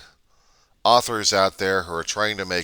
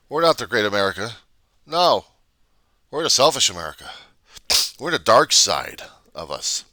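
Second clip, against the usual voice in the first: fast loud rant; 3 semitones higher, 6 dB louder than usual. Real, not acted. Ranting vlogger condemning selfish America, fast and loud. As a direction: hammer the point home.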